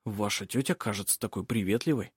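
low-key, softened reply; hushed male character line; cautious young man. Acted. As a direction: say it softly, carefully. Yves answers cautiously, sensing danger.

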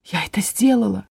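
breathless whispered disbelief; awed whisper. A narrator's reading. Fairy whispering in disbelief at her success. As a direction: whisper it in wonder. Fairy stunned after casting.

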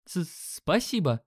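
trembling, stammered thanks; shaky voice. Acted. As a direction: stutter out a scared thank you. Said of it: "дрожащим голосом поблагодарил парнишка".

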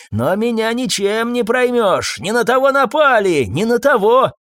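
agitated defiance; defiant bluster. A narrator's reading. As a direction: crow it indignantly, pitch way up.

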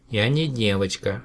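a touch of hurt pride, slow; offended. Acted. Alien corrects the professor, mildly offended. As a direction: slowly correct him, a little stung. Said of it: "обиженно заявил Мананам".

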